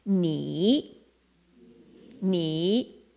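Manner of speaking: "Ni" said like knee; Chinese ni. Shown as a demonstration. Missionary teaching the word for you, like knee. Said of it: "And then we get the last one".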